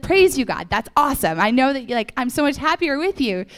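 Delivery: a monk thanking God with loud delight; excited praise. Retold or imitated. Monk praising God in a loud happy burst. Retelling Brother Lawrence's joyful prayer.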